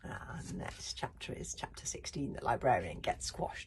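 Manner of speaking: quiet gentle close; soft sign-off. Real, not acted. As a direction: wind down for bedtime. Reader closes for tonight.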